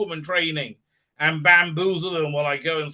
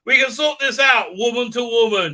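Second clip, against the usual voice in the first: higher, louder mock condescension; condescending lecture; 7 semitones higher, 8 dB louder than usual. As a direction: talk down like a know-it-all. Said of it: "as she condescends and lectures".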